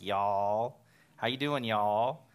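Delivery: loud, lightly hammed-up cowboy drawl; mock cowboy accent. Friends teasing him about his cowboy accent, mock cowboy accent. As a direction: tease with an exaggerated cowboy twang. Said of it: "they say I have a cowboy accent".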